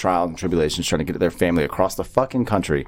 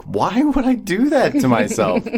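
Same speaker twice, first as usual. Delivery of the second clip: mock dread; 10 semitones higher than usual. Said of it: "And I was like".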